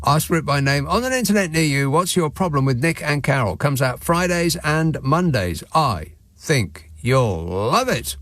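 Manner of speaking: put-on upbeat old-time commercial announcer; chipper 1950s ad. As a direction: sell it like a vintage radio ad. Podcast plug read as a mock advert.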